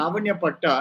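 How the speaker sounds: లావణ్య పట్టా with "-nya" at the end of the first word; wrong form Lavanya. Shown as a demonstration. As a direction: show the mistaken లావణ్య, like the girl's name. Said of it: "It's not".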